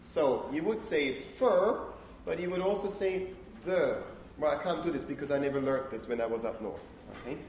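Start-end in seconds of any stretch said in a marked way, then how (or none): 1.4-1.8 "fur" in a northern English accent, vowel drawn out; northern English "fur" with a long central vowel. Shown as a demonstration. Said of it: "if you were a northern person". 3.7-4.0 "there" with the vowel of "fur", as in northern England; attempted northern English "there", sounding like "thur"; northern English accent. Shown as a demonstration. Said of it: "the two words with exactly the same vowel".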